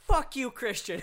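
loud, high angry outburst; angry sister. Retold or imitated. Sister fed up with farting brother at breakfast, angry. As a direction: blow up at your sibling, mock-furious.

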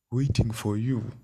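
loud, slow disbelieving echo; incredulous. Retold or imitated. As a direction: repeat it in shock. Mock disbelief at request.

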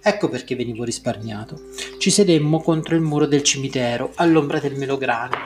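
measured novel read-aloud; story narration. A narrator's reading. Teacher reads the pomegranate story to the class, narrating. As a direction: read the story out in even, connected phrases.

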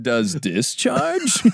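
slow, drawn-out title announcement; drawn-out mock title call; mock show announcer. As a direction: announce the segment like a game show.

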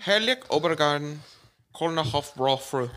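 loud, emphatic German label reading; put-on German accent. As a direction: proclaim the label in hammed-up German. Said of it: "With your sexy accent".

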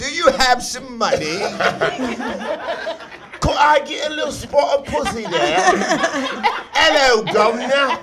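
hammed-up high Cockney beggar voice, laughing; mock Cockney. Jokes he raps with an accent, mock Cockney begging. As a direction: play a begging Londoner, camp and high. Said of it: "hit it with an accent".

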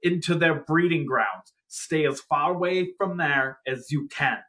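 lightly voiced grave news bulletin; grave 1940s war broadcast. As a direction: read it like an old wartime radio bulletin. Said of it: "We interrupt this broadcast".

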